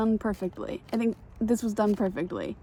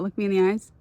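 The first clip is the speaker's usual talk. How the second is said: insistent demand; 6 dB louder, faster than usual. Real, not acted. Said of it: "I want you all to know that".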